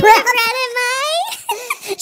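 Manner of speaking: gasping laughter, losing breath; laughing so hard you can't breathe; hyperventilating. Real, not acted. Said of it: "She's hyperventilating".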